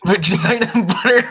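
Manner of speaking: high, laughing disbelief; incredulous laughter. Real, not acted. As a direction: repeat it through laughter as a baffled question. Laughing disbelief at bizarre term.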